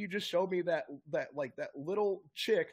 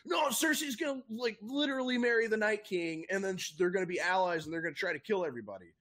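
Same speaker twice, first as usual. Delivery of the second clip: excited rant; 3 semitones higher than usual. Retold or imitated. Mocking his own excited theory.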